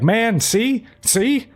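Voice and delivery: put-on high, excited old lady squawk; mock shrill granny. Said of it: "Turbo Granny is like".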